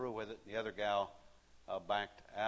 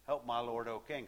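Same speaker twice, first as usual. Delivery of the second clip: a touch of tired begging, quieter; softer plea. Acted. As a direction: repeat the plea as if worn out. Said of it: "So she's crying out to him".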